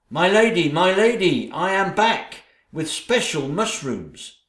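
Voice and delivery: a fawning lackey hurrying in; eager servant. Acted. Servant Tarantello announcing to his lady, high and eager.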